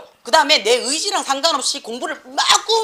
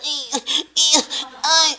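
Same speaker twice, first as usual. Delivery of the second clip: short puppy-like whimpers; imitated puppy whine; 3 semitones higher, much slower than usual. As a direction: whine like a pleading little puppy. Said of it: "막 강아지 소리 내는 아들 있잖아".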